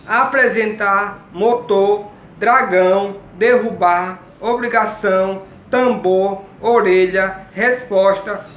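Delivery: each word spoken clearly and apart; slow dictation. Shown as a demonstration. Teacher dictating a word list to the class, slow and clear. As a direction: read the list out slowly to pupils.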